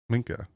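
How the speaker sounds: "Minka" said quickly, N still heard before the K; audible quick N. Shown as a demonstration. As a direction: keep a small N inside "Minka". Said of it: "you can hear the N in there".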